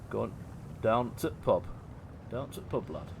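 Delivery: light Yorkshire turn of phrase; Yorkshire accent. Shown as a demonstration. Streamer demonstrating Yorkshireisms, lightly attempted Yorkshire accent. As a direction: try a casual bit of Yorkshire. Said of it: "you can do sort of Yorkshireisms".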